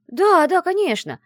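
eager agreement. Acted. Friend eagerly assuring the librarian, high and loud. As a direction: nod along eagerly, pitched high and loud. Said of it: "активно начала кивать подруга".

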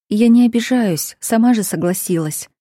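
a hint of a shy girl; young woman's voice. A narrator's reading. Tasya's voice, higher.

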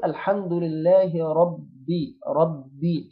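ربي with a held double b released into clear "bi"; slow recitation, firm doubled b in ربي; doubled ba with kasra. Shown as a demonstration. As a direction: lean on the shadda: "rab-bi" in ربي. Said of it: "نكسر الباء كويس بقى بالشدة".

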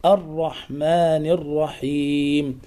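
"الرحمن الرحيم" chanted slowly with dark r; heavy ra. Shown as a demonstration. Teacher repeats the correct reading, heavy ra in "الرحمن". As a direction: give "الرحمن الرحيم" a full, thick ra. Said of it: "الراء مفخمة".

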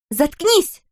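high, loud furious shout; a girl blowing up at the dealer, shouting; furious outburst. A narrator's reading. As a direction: explode at him. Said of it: "взвилась Кристел".

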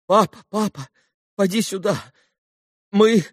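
excited babbling. A narrator's reading. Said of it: "Пролепетал было Илюша в чрезвычайном возбуждении".

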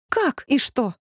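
surprised. Acted. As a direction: caught off guard, asking twice. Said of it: "удивилась я".

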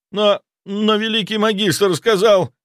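slow, high stammer trailing off; stammering slip. A narrator's reading. Zaitsev stammering and blurting out his master's words. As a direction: let it slip, then catch yourself. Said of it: "Он замолк, поняв, что проговорился".

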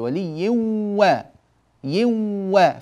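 ولي و- stretched very slowly on a nearly doubled و; almost doubled waw. Shown as a demonstration. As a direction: lean on the و of ولي as if it had a shadda, slowly. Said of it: "مع أننا نلفظ بواو تقريبًا مشددة". (واو شبه مشددة بتمهل)

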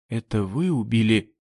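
plain reading voice

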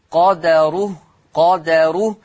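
قدره with an open "a" after the dal, qadaruhu; Hafs-style قدره, vowelled dal; Hafs reading. Shown as a demonstration. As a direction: say قدره as qa-da-ruh, dal carrying a fatha. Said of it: "لحفص عن عاصم تقرأ بفتح الدال".

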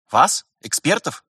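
high, rising incredulous questions; surprised. A narrator's reading. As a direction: question each word in surprise. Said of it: "Рихард удивлённо поднял брови". (удивлённо переспрашивая)

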